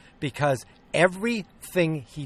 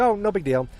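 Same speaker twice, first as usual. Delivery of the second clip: high, louder breezy shrug-off; mock nonchalant; 7 semitones higher, 5 dB louder than usual. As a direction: toss it off like nothing happened. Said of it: "he would've been like".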